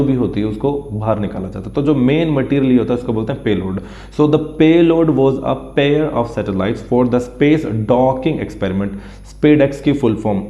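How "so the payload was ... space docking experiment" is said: very slow, word by word, like dictating to a class; slow dictation reading. Shown as a demonstration. Teacher dictating the news line to students, very slow and deliberate. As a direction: read it out slowly so students can copy it down.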